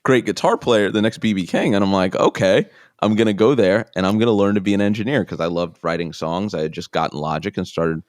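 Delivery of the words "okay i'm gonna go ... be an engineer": mildly eager, raised pitch; a touch of keen young optimism. Retold or imitated. Young hopeful plans his music career, eager.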